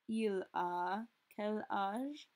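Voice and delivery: "Il a quel âge?" drawn out slowly; very slow model. Shown as a demonstration. Teacher showing students that "as" and "a" sound alike. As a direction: stretch it out clearly. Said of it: "sound the exact same".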